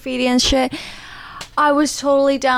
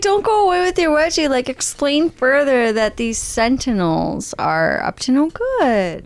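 retold pleading. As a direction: implore him, dragging out the final words. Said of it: "I was like".

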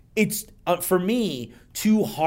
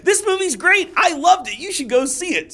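quoted self, higher; 12 semitones higher, 4 dB louder than usual. Retold or imitated. Quoting own Facebook post.

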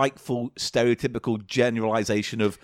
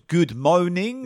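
mock French accent; 5 semitones higher, slower than usual. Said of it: "doing French badly".

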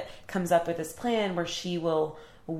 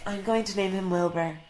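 laughing gush; 3 dB louder than usual. Acted. Gushing Fern quote.

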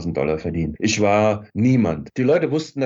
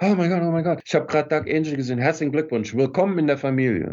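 higher-pitched, gushing mock star; lightly acted, pitched-up excitement; excited congratulations; 5 semitones higher than usual. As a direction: imitate an excited star greeting a newcomer. Retold star rushing over to congratulate.

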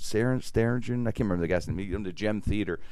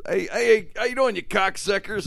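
Calamity Jane greeting; 10 semitones higher than usual. Retold or imitated. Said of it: "She goes".

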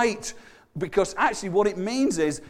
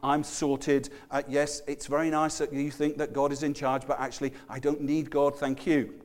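smug polite refusal; 4 semitones lower, 6 dB quieter than usual. Retold or imitated. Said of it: "They're the ones".

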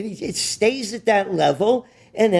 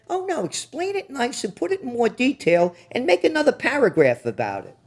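sarcastic mock; 5 semitones higher than usual.

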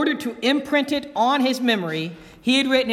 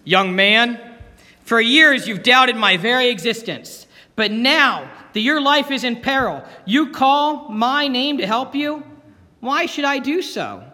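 booming voice. Acted. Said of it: "heard a booming voice say".

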